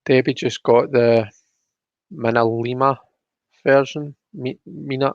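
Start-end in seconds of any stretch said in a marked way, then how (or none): 2.1-3.0 "Minalima" with a short first i, as in "min". Real, not acted. Unsure of a company name, "Minalima" with short first i. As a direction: say "Minalima" starting like "minute". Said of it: "Am I saying that funny?".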